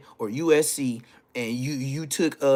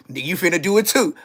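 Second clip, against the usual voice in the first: quick urging; 4 semitones higher, 6 dB louder, faster than usual. Retold or imitated. T-Baby urging him in line.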